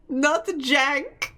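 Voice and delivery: laughing know-it-all correction; insistent correction. Pretend. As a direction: correct them through a laugh. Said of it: "um actually".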